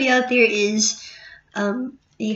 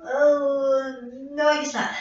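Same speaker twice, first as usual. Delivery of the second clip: higher voice, holding off a sneeze; about to sneeze; 3 semitones higher, 4 dB quieter than usual. Real, not acted. Vlogger with a cold warns viewers a sneeze is coming, about to sneeze. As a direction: talk through a sneeze that's building, then won't come. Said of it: "I'm gonna sneeze".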